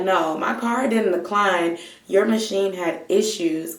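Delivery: firm, pointed, fake-polite correction; mildly snippy but holding it polite; ratchet polite snapping. Customer lectures the cashier about her card, politely snapping. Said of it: "start snapping in a kinda ratchet, polite way".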